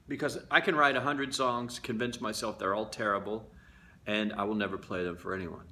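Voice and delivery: ordinary delivery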